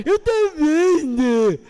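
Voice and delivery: hammed-up high, loud, drawn-out cooing; mock a silly grandpa cooing at a baby; changed baby-talk voice. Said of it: "tem que mudar a voz quando fala comigo". (imitação exagerada de voz de bebê)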